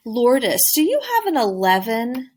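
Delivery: rising question tune on eleven; stressed question. Shown as a demonstration. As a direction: lift "do you have an eleven" up at the end. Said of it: "we're really stressing the question part".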